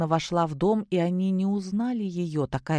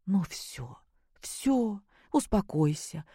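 soothing; 2 semitones higher, 4 dB quieter, slower than usual. A narrator's reading. Mother soothes daughter.

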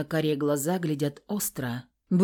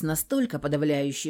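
ordinary delivery, nothing marked

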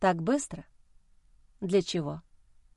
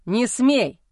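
roared; 3 semitones higher, 5 dB louder than usual. Acted. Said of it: "взревел Матвей".

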